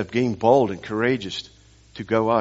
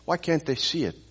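higher-pitched exasperated prayer, repeated whys; frustrated pleading; 5 semitones higher, 3 dB quieter than usual. Retold or imitated. Preacher retells praying to God after failing to get through, frustrated pleading. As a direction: plead upward in frustration, without raising the volume. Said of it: "frustrate me".

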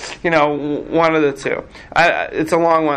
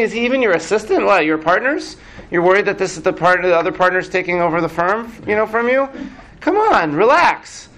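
scoffing Moses; 2 semitones higher than usual. Acted. Moses telling God to relax, scoffing. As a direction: tease the worrier out of it, pitched up. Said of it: "he's saying".

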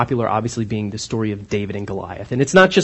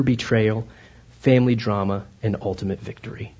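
movie trailer voice. Pretend. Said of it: "If I could do the movie trailer voice".

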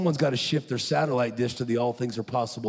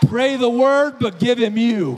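loud, high pulpit shout; preacher shouting to the congregation; full-force preaching; 10 semitones higher, 9 dB louder, slower than usual. Acted. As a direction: drive it at the crowd. Preacher climax.

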